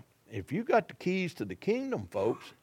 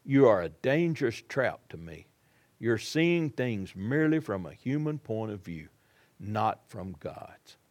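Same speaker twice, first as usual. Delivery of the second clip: stern rebuke; 5 semitones lower than usual. Retold or imitated. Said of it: "he turns right here and he says".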